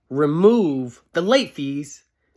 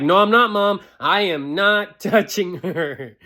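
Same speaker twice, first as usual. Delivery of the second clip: higher, louder protest to Mom; defensive kid denial; 5 semitones higher, 3 dB louder than usual. Retold or imitated. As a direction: deny it like a caught kid. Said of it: "I'm like".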